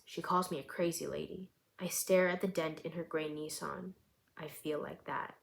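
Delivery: measured, even reading of her own story; story narration. A narrator's reading. Author reading her short story aloud to listeners, calm narration.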